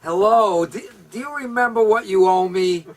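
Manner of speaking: loud, high threatening lender; menacing lender. Retold or imitated. A lender confronting his borrower, loud and threatening. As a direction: lean on the debtor hard. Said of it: "lender addresses borrower".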